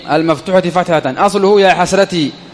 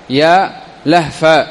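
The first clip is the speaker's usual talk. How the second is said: very slow example; much slower than usual. Shown as a demonstration. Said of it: "أصله يا لهف".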